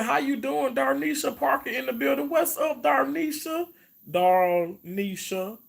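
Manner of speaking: thrilled to see a regular viewer; excited shout-out. Real, not acted. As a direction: call out to her, stretching the name. Greeting a viewer by name.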